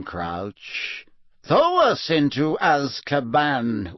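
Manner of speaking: slow, lightly voiced fanatic witch; a hint of a fanatical witch, slow; defiant witch. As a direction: vow it slowly with cold pride.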